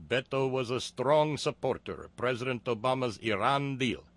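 mock Middle Eastern accent. Reading the attack ad script aloud, in a mock Middle Eastern accent. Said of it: "someone who could do a passable Middle Eastern accent".

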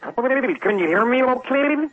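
high, slow, wobbling finger-on-lips trick; drawn-out warbly vintage soundtrack effect; warbling old-movie voice. Shown as a demonstration. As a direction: flap a finger over the lips while talking. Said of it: "ran my finger up and down my mouth".

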